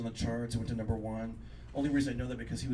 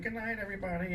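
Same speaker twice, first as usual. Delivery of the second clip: half-assed; 7 semitones higher, 3 dB quieter than usual. Retold or imitated. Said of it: "kinda did it half-assed".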